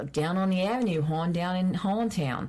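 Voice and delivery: homely Baltimore accent for reminiscing. Shown as a demonstration. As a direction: slip into a local Baltimore accent. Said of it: "I can pick it up like that".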